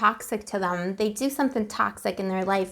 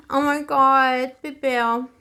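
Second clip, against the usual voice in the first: louder, very slow and drawn out; overwhelmed gasp; 3 semitones higher, 5 dB louder, much slower than usual. Real, not acted. Reader reacting to painful cards, slow loud exclamation. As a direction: let it spill out overwhelmed.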